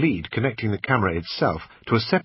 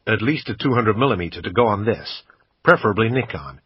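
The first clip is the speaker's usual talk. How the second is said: put-on a louder American accent, kept up while haggling; bad American accent; 4 dB louder than usual. Brit quizzing the shop assistant, bad American accent. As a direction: keep the clumsy American put-on going. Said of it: "in my usual bad American accent".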